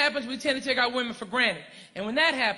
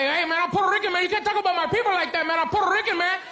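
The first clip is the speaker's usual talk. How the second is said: mock offended Puerto Rican; 5 semitones higher, faster than usual. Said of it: "Puerto Ricans always get mad".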